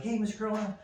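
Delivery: put-on be a small boy spotting a grown-up he knows; kid calling out. Son's friend greeting dad after recital, high kid voice. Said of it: "one of his friends is like".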